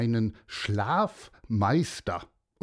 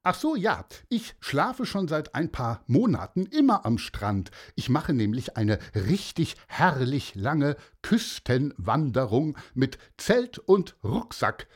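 hoch und laut ausgerufene Morgengrüße; fröhlicher Mann; 2 semitones higher than usual. Acted. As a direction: das Meer überschwänglich laut begrüßen. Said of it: "sagte der Mann". (Mann im Schlafanzug grüßt das Meer, hoch und laut)

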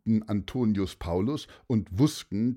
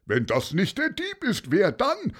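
high-pitched rhetorical shout; raised voice from the crowd; shouted accusation; 10 semitones higher, 3 dB louder than usual. A narrator's reading. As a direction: call out as another sure accuser. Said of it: "brüllte noch jemand".

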